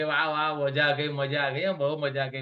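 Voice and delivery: a touch of gushing, buttering praise; lightly hammed-up fake wow; mock flattery. Trainer mocking insincere praise, lightly gushing. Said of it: "buttering नहीं होनी चाहिए".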